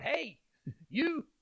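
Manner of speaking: a playful, laughing "Hey, you" hailing someone; mock loud call. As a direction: hail them lightly, half laughing. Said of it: "with that loud".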